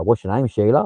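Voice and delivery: lightly imitated Australian question; mimicked Aussie uptalk. Streamer imitating Australians asking a name, light Aussie uptalk. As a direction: put a hint of Aussie lilt on it. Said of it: "they answer their own questions and they go".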